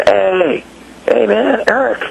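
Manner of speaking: high-pitched imitation of an American hailing him; American fan calling. American spotting him overseas, calling out to him. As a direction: call out like an excited compatriot. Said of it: "an American voice going".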